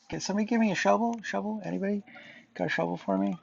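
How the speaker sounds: silly high goofy voice. Acted. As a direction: pitch it up, quick and goofy. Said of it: "do these stupid voices".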